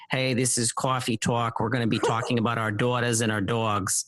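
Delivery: lightly imitated Coffee Talk accent; a hint of a hammed-up Coffee Talk New York accent; Mike Myers accent. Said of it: "he'd talk, like, in an accent".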